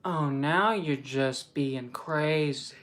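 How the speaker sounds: slow, drawn-out delivery held without laughing; straight-faced retake. Acted. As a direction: stretch each word, keep a straight face. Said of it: "I gotta stay with a straight face".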